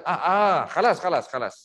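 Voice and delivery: meniru orang Arab yang tersenggol, "khalas" dengan kh; lelaki Arab marah. Retold or imitated. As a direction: tiru pemandu Arab, agak kuat. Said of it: "Dia keluar kata". (lakonan ringan orang Arab berkata "khalas")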